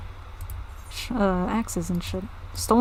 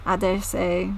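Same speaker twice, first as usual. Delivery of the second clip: put-on southern accent slipping English. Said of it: "almost stepping my toes into an English accent".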